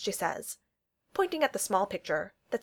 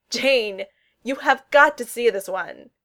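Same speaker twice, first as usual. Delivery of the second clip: loud, drawn-out, delighted call; excited calling out; 3 semitones higher, 10 dB louder, slower than usual. Acted. Darcy calling Jane to see a picture, excited. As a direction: call across the room, thrilled.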